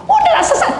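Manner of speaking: very high, loud mocking voice; imitating a mother brushing off her kids; mock dismissive mother. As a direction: squeal it like a dismissive mama. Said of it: "nggak boleh juga".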